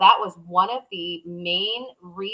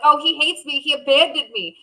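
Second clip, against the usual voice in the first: mock hurt whine; 7 semitones higher, 4 dB louder than usual. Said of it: "real frustrated 'cause I'm like".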